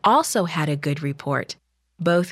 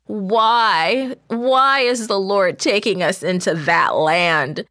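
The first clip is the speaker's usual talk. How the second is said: louder, pleading crowd voice; panicked wailing; 3 semitones higher, 4 dB louder than usual. Acted. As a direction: beg to turn back, in dread.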